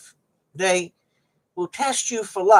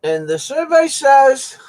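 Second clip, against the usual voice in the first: game show host; 4 semitones higher, slower than usual. Pretend.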